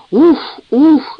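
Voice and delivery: gurgling chuckle. A narrator's reading. Luke teasing Eliza, poking her ribs, chortling. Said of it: "заклокотал Люк".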